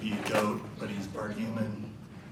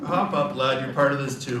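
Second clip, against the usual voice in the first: put-on Irish Boston accent; 3 semitones higher, 6 dB louder than usual. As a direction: call to the lad in a rough brogue. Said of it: "Irish Boston accent".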